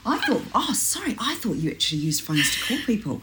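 hammed-up apologetic parent; sarcastic apology. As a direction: feign innocent surprise with heavy sarcasm. Acts out mock apology to daughter.

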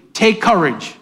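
call-and-response with the congregation; preacher leading the room through the words. Shown as a demonstration. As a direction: lead them to say it with you. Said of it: "Say it with me".

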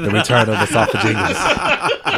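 slow, hammed-up trailer announcer; movie trailer voice. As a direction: announce it like a horror sequel. Mock movie title.

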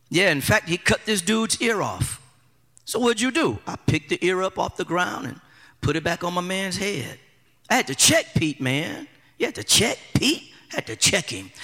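low, quiet and matter-of-fact; Jesus voice. Retold or imitated. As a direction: tell it softly, shrugging it off. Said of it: "the conversation probably would have gone something like this".

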